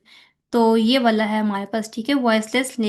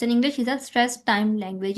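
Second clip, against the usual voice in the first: slow question read; much slower than usual. Acted. Reads the quiz item.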